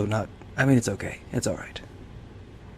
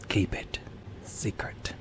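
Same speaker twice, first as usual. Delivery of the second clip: softer, breathy repeat; whispering; 7 dB quieter, slower than usual. Pretend. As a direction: whisper it again, fainter. Repeats the secret aside.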